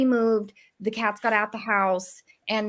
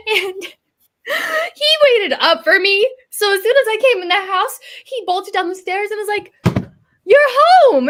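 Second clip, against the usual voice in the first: laughing; 8 semitones higher, 9 dB louder than usual. Real, not acted. Laughing-crying retelling.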